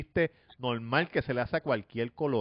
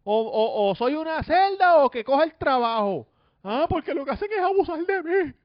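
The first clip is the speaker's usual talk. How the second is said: high shrill-pitched yelling, much louder; mock screaming; 7 dB louder than usual. Imitating Pamela screaming at her coworkers, high loud yell. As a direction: scream it like a furious coworker fed up with abuse. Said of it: "ella empieza a gritar".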